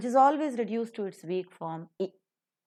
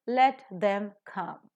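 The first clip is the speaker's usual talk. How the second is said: slow line with only "come" stressed; much slower than usual. Shown as a demonstration. Teacher models the sentence, stressing only "come". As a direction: keep "Let them" light and land on "come". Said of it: "only one word is accented".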